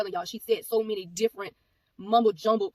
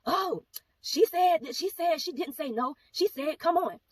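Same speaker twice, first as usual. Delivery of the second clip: much higher, slow, drawn-out imitation of the stranger; mock indignant lady; 7 semitones higher, much slower than usual. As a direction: ham up the woman's whiny protest, pitched way up. Lady protests to the mother.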